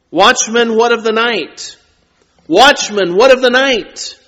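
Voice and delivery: "Watchman, what of the night?" called out, "what" stressed; emphatic repetition. Shown as a demonstration. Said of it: "the repetition of this phrase is to emphasize".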